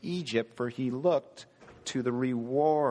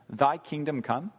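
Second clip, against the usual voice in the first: pat prayer. Shown as a demonstration. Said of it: "Just a pat prayer?".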